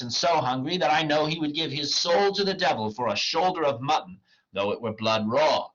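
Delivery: theatrical comic dialogue; dramatic play reading. Acted. Wagner mocks the poor clown, declaimed. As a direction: declaim the old lines with lively swings.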